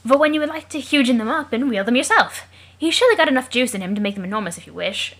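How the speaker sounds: lightly hammed British adventurer; British gentleman explorer, emphatic and swooping; put-on British accent. Jake muses on enlarging weapons, lively British accent. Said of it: "the only reason he has that accent".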